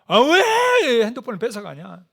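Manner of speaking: loud, drawn-out, high mock whine on the first words; mock child's wail. Child protesting to dad over the taken phone, mock wailing. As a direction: imitate a kid bawling in protest. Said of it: "그때부터 이제 울기 시작하는 거예요".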